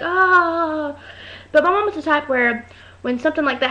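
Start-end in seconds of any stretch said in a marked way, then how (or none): 0.0-1.0 mock laughing "ah". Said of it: "you're not supposed to laugh".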